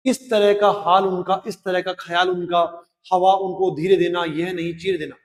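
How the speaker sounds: measured verse reading; poem recitation. Acted. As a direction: give the lines their poetic weight.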